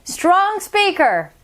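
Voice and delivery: strong speaker. Shown as a demonstration. Recap, each name in its volume.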